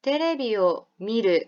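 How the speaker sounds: 테레비요 미루 said slowly with Japanese sounds; Japanese pronunciation. Shown as a demonstration. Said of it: "한번 따라해 볼까요". (테레비요 미루를 일본어 발음으로 천천히)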